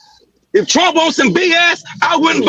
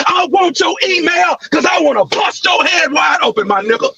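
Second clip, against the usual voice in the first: raised, higher threat yelled at a rival; real yelling; 3 semitones higher than usual. Real, not acted. Man yelling threats at a rival in a heated meeting. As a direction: yell the threat across the room. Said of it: "all that yelling you doing".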